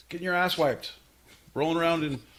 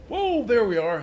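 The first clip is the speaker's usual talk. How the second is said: higher, louder surprised whoa; 9 semitones higher, 7 dB louder than usual. Real, not acted. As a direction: react like the call just connected. Getting into the call.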